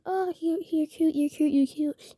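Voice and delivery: fake flirty. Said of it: "So I start playing along".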